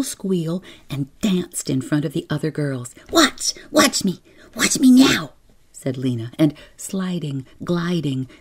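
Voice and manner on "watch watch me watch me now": put-on high, loud little-girl excitement; squealing show-off. A narrator's reading. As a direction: crow for everyone's attention, high and loud. Lena squeals, showing off to girls.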